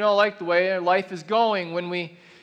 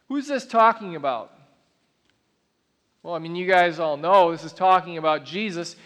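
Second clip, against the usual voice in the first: ordinary talk, nothing marked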